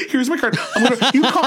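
a hint of an eager auntie offering her card; imitating a tita. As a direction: hand over the card like a fussing aunt. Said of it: "that's like my tita".

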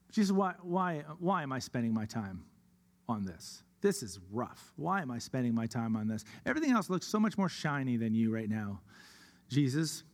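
low, subdued grumble; doubting complaint. Acted. Believer questioning Jesus about wasted time, low doubting complaint.

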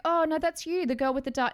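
dad telling his daughter it is her, lightly voiced; insistent dad. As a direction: insist like a fond old dad who won't be told.

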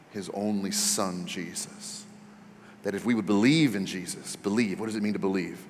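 soft, low, musing over each phrase; quietly chewing on the words; pondering. Shown as a demonstration. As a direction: think aloud slowly, with long pauses between phrases. Demonstrates meditating slowly on verse.

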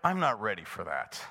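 a scared kid backing out, lightly voiced; timid teen voice. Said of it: "you're not like".

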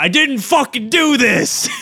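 high, laughing protest of innocence; laughing blustery denial; Nixon impression. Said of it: "Richard Nixon going".

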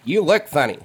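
put-on high, eager little kid voice; child voice. GM voicing a half-orc kid to the players, high childlike. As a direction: chirp it out like a curious small boy.

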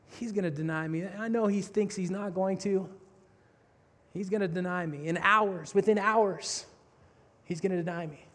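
Jesus murmuring to himself; quiet inner voice. Retold or imitated. Jesus watching Peter, knowing he will deny him, soft and low.

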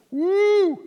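high excited whoop; excited woo. Retold or imitated. Pastor retelling his hopes for the job, excited whoop. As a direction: let out a giddy woo.

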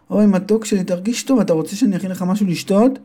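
high, caring mother's voice; tender mother. Acted. Mother comforts her son, high and caring. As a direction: coo over him like a mother.

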